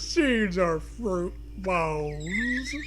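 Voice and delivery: milk the sadness for laughs; exaggerated mournful drawl; hammed-up sadness. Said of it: "you say sadly".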